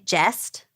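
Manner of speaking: "jest" said with an E vowel, like "best"; dialect "jest". Shown as a demonstration. Host teaching Pittsburgh words, "jest" with an E. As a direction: say "jest" in place of just. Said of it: "instead of just, they say jest".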